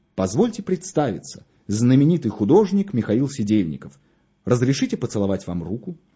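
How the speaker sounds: plain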